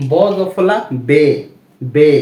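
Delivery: বে said slowly as a close "be", not "bæ"; slow model reading. Shown as a demonstration. Teacher contrasts বে with ব্যা for students, slowly. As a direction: spell out ব জফলা বে, stretching বে. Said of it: "কেমন?".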